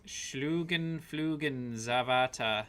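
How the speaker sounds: "Schlugenflugen Zavata" spelled out slowly, syllable by syllable; careful slow pronunciation. Real, not acted. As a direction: sound out "Schlugenflugen Zavata" hesitantly. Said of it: "I don't even know if I can pronounce".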